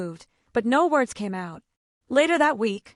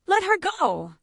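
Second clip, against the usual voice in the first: higher, sharp commanding shout; 9 semitones higher than usual. A narrator's reading. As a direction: order them off her. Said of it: "he shouted".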